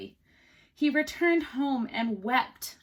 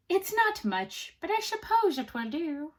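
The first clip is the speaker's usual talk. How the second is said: grudging little man; 6 semitones higher than usual. Acted.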